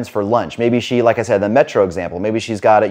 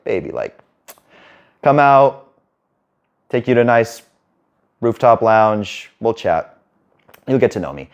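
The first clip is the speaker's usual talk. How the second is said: smooth invite. Retold or imitated. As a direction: coax her out like a calm charmer.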